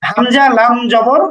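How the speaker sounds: slow, deliberate letter-by-letter reading; slow spelling out. Shown as a demonstration. Teacher spells the Arabic syllable for students, slowly. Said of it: "সুতরাং উচ্চারণ হবে এমন".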